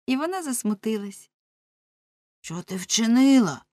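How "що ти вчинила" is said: shouted question. Acted. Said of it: "крикнув Ламе".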